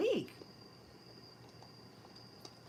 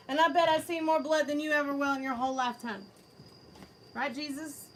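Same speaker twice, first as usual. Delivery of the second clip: higher, louder, taunting a troll; mock vampire-troll voice; 4 semitones higher, 5 dB louder than usual. Taunting a chat troll in a put-on voice. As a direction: sneer it like a smug spooky character.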